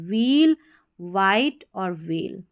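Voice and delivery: व्हील, वाइट, वेल begun with व; wh read as व. Shown as a demonstration. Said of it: "वह या व करके पढ़ें".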